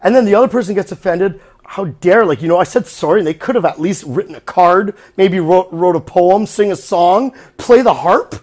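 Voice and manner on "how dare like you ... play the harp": mock indignant rant. Mocking offended person's rant.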